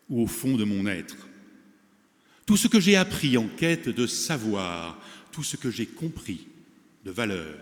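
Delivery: declaimed poem, phrases falling at the ends, set apart by pauses; poem recitation. Acted. Closing the forum with a poem on transmission, solemn recitation. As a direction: recite in measured verse, leaning into each opening.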